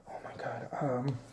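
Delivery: nervous whisper. Retold or imitated. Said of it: "we're like".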